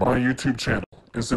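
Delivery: low put-on voice. Excited YouTuber announcing their channel to viewers, in a deep voice. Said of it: "[Deep Voice]".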